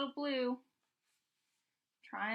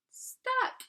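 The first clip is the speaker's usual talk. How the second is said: dramatic stuck; 12 semitones higher than usual. Acted. Dramatic reading of the plot.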